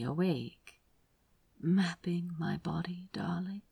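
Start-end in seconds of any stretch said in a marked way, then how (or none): 1.6-3.6 soft whispered murmur. A narrator's reading. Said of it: "Aziraphale murmured".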